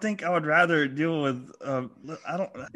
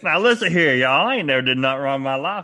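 put-on Southern accent; 5 dB louder, faster than usual. Cohost mocks the swindler in a Southern accent. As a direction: ham up a Southern country boy, y'all. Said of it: "we're talking like he's from the South".

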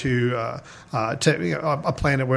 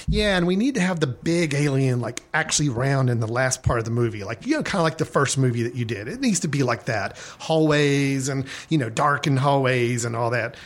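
high-pitched nasal voice. Retold or imitated. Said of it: "a little more high-pitched, uh, nasally voice".

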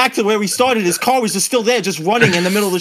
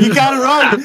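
urgent; 7 semitones higher, 4 dB louder than usual. Retold or imitated. Friend urging during chase.

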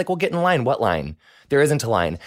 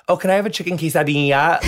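1 mock Spanish accent; 4 semitones higher, 3 dB louder than usual. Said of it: "just 'cause I speak Spanish".

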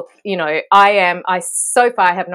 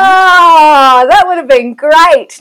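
higher, much louder delighted cry; thrilled by the idea; real gleeful exclamation; 8 semitones higher, 11 dB louder, slower than usual. Real, not acted. Delighted by suggested line.

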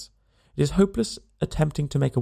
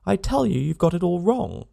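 mild roar; 5 semitones higher than usual. Acted. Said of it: "you roar".

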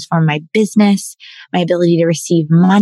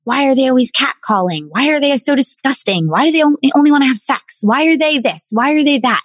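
raised, exasperated whining questions; mock disgusted complaint; 6 semitones higher than usual. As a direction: mimic her old judgy self ranting about men.

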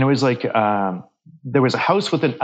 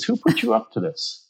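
much higher, retold accusing demand; mock a suspicious, riled-up colleague; imitating angry coworker; 10 semitones higher than usual. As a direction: coworker turning on the storyteller, mildly acted anger. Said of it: "then he got mad at me and he says".

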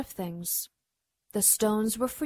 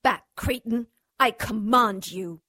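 commanding witch; 2 semitones higher than usual. Acted. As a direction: order him back like a queen.

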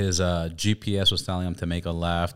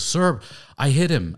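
confessing; 7 semitones higher, 5 dB louder than usual. Retold or imitated. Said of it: "He goes".

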